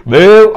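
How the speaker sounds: mock burp for demonstration; imitated belch. Shown as a demonstration. Teacher showing learners what belching is, imitated burp. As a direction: imitate a burp escaping after a big meal. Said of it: "దాన్ని belching అంటాం".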